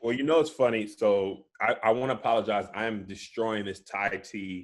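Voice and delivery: chewing while talking; mouth full. Real, not acted. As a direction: talk round a mouthful of boba. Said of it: "I'm chewing boba".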